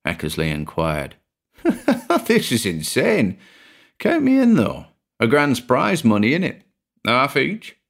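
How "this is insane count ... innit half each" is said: high and gleeful; laugh, then jump in eagerly; excited laugh. A narrator's reading.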